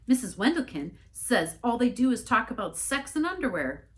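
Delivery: a hint of a fretting minister piling up rumors; flustered minister. Worried minister reports rumors.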